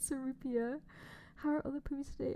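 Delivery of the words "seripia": "Serapia" as "suh-REE-pia", rising; imitated mispronunciation. Repeating a friend's odd pronunciation, imitated. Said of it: "that's how you said it".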